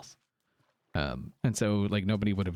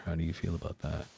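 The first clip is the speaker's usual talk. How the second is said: soft low ASMR murmur; 5 semitones lower, 6 dB quieter than usual. Shown as a demonstration. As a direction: hush it down, ASMR style. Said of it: "A S M R voice some more".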